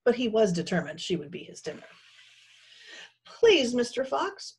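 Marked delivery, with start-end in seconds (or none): 3.2-4.6 high, pleading whimper. A narrator's reading. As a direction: beg the captor in a small high voice. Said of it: "Pearl whimpered".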